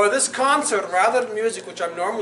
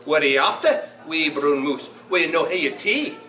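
put-on animated children's storytime in Scottish dialect; lilting, theatrical Scots storyteller; Scots story reading. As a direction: read it to children in broad Scots, with big swings. Reads Gruffalo aloud in Scots.

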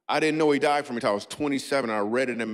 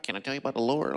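creepy churchy voice; 4 dB quieter, faster than usual. Retold or imitated. Comedian mocking Christians whose voice changes, hint of creepy softness. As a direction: lightly voice the overly sweet believer. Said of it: "Their voice changed when they talk about God".

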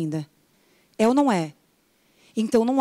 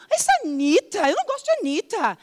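higher dismissive remark; mock disdain; 8 semitones higher, faster than usual. Viewer dismissing a singer, higher. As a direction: sniff at the singer. Acting out judging a singer.

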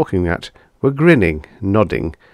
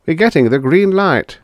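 excited; 9 semitones higher, 6 dB louder than usual. Acted. Manufacturer cheering.

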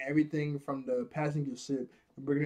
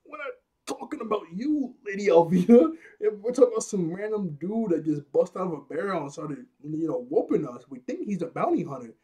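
lightly voiced scared pirates; 3 semitones higher, 4 dB louder than usual. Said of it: "they were like".

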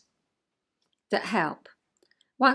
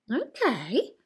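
calm adult. Retold or imitated. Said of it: "I said in adult".

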